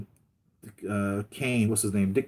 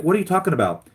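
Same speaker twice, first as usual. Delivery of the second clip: confused Lois; 8 semitones higher, 4 dB louder, faster than usual. Retold or imitated. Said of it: "She's like".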